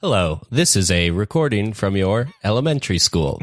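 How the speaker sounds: flat robotic recording voice. Acted. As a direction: read it like an automated message. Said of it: "why you're calling in the robot voice".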